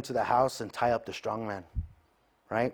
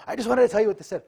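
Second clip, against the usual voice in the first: much higher, louder defensive whine; mock whiny self; 12 semitones higher, 9 dB louder, much faster than usual. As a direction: whine it like a hurt kid. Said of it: "I'm like".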